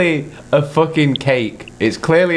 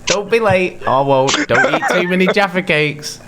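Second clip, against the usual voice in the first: imitating mum; 6 semitones higher than usual. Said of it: "she'd be like".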